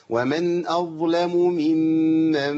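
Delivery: ممن with cleanly separated مims; correct mims. Shown as a demonstration. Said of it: "اسمعوا الصح والخطأ". (ممن بفصل صحيح)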